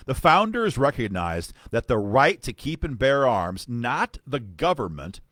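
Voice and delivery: emphatic, declamatory reading of an official letter; letter read aloud. Acted. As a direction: read it out firmly like a formal rebuttal.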